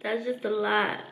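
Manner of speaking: wincing after bad taste; speaking with disgusted grimace. Real, not acted. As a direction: lips tight in distaste. Seen 0: Spat food into tissue before; grimaces during words, no chewing seen.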